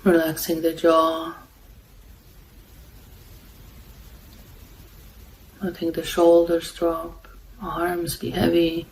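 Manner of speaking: calm, unhurried meditation guidance with long pauses; guided meditation. Real, not acted. Meditation host guiding listeners to follow the breath, calm and unhurried. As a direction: guide them gently, leaving long silences between phrases.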